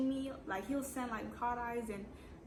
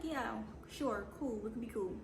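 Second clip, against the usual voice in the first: fake agreement. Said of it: "I'm lying".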